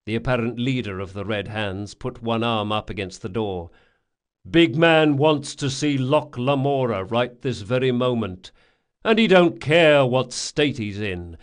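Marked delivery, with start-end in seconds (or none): 4.5-11.4 louder, lightly voiced tough henchman; a hint of a hard-man messenger; hard gang enforcer. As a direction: deliver the boss's summons firmly. Red Hands leader delivers summons.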